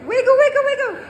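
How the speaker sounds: giggling through the words, high; laughing. Real, not acted. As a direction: laugh while you chant it. Laughing while leading hip wiggle.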